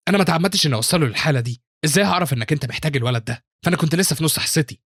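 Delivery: understated anger, pitched a little up; a touch of indignant self-defence; angry. Acted. Teacher defending herself to the student council president, mildly angry. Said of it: "وهي بتقول بغضب".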